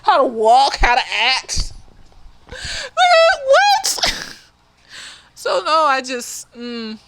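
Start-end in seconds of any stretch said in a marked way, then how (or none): 2.5-4.4 outraged what. Acted. Outraged disbelief.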